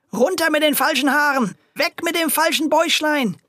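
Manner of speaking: tearing at the disguise he expects; shouting. A narrator's reading. Grocer yanking at the boy's hair, high frantic shout. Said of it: "schrie er".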